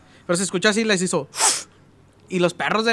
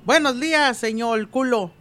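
high-pitched mock Chinese accent, r turned to l; chirpy foreigner greeting with a Chinese accent; 4 semitones higher, slower than usual. Chinese man greets the torero with a mock Chinese accent. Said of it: "el mismo chino caminando".

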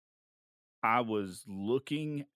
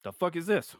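retold bafflement; 7 semitones higher, 4 dB louder than usual. Retelling his baffled reaction.

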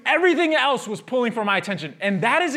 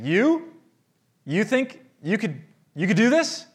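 mocking inner voice; slower than usual. Inner critic mocking the rider, taunting. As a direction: sneer it out like a heckler. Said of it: "baggage ... like a megaphone saying".

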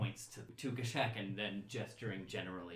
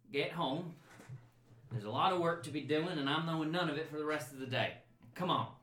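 brisk mother; 6 semitones higher, 4 dB louder than usual. Acted. Mother orders kids home.

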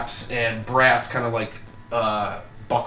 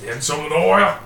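put-on small child; 5 semitones higher, 6 dB louder than usual. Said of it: "a small child".

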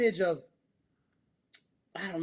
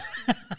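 imitated burst of stifled sobs; mock weeping, choked back. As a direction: act out sobs you're trying to hold in. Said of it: "I'm weeping".

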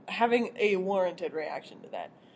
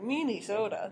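put-on Minnesota accent, long rounded vowels; 3 dB quieter than usual. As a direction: say it like a Fargo Minnesotan. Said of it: "that's my Minnesota accent".

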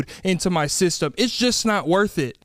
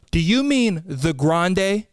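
condescending; much slower than usual. Retold or imitated. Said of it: "She goes".

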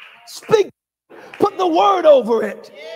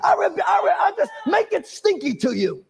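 modeled prayer. Shown as a demonstration.

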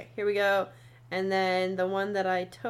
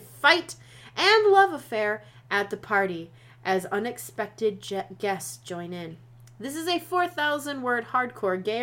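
dramatic reading; 4 dB louder than usual. Acted. Reads blurb in announcer style.

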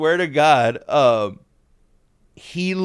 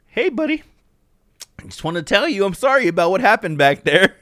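mock sheepish apology; 6 semitones higher than usual. Rich pulls up, apologizes.

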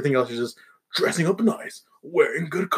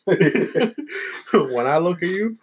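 very slow, higher mock come-on; mock pickup line; 4 semitones higher, much slower than usual. Friend trading joke pickup lines, mock flirty. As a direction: draw out the corny opener.

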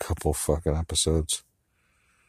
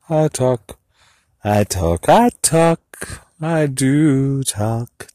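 higher and louder, varied takes; playful high variations; 8 semitones higher, 5 dB louder, much slower than usual. Pretend. Playing with voices while talking to herself. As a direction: toy with the words.

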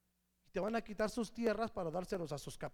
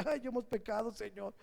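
mock whining; 3 semitones higher than usual. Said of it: "chillaba y dice".

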